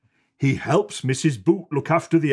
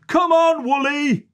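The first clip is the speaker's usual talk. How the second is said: higher, louder coaxing call; 13 semitones higher, 4 dB louder than usual. Acted. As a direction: coax the sheep out. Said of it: "says Ted".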